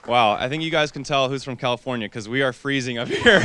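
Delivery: cold, shivering and laughing. Real, not acted. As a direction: talk through chattering teeth. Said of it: "My teeth are chattering right now".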